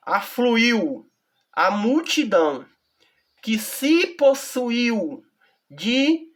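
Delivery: slow, measured Bible reading with long pauses; solemn slow reading of scripture. Acted. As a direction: read the verse aloud slowly and deliberately.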